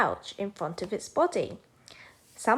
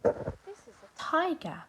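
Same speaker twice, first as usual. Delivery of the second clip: high tiger intro; 9 semitones higher, 4 dB quieter than usual. Shown as a demonstration.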